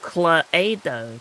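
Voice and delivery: Cluedo said as klay-doh; saying Cluedo with a klay-doh sound; Cluedo as you say it. Shown as a demonstration. Repeating how the chat says Cluedo. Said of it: "You say".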